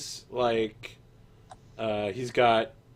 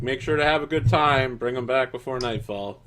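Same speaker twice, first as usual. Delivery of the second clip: jailer voice; 5 dB louder than usual. Acted.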